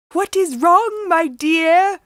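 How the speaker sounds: high, loud put-on granny call; the disguised man calling out; fake granny calling. A narrator's reading. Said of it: "called her grandmother, but not".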